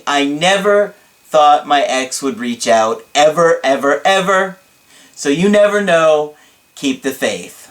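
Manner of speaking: emphatic, lightly hammed-up testimony; rally everyone with theatrical conviction; dramatic client impression. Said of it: "this is hard to keep up in his voice".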